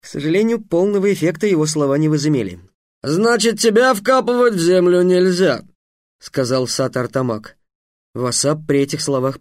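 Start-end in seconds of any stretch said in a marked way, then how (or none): 3.0-5.6 lightly voiced stern eastern dignitary; a hint of a haughty official. Sat Artamak speaks.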